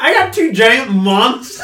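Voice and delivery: loud laughing boast. Real, not acted. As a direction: laugh through the words. Laughing excitedly.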